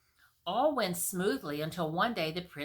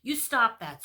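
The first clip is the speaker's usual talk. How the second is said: loud sharp scold; fairy scolding the king; 5 semitones higher, 8 dB louder than usual. Acted. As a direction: tell him off. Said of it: "scolded the fairy".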